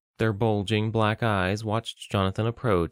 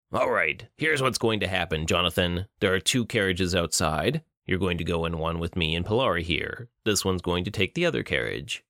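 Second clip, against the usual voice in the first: menacing villain; 3 semitones lower than usual. Acted. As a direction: savor each taunt like a cruel captor. Bruto gives orders.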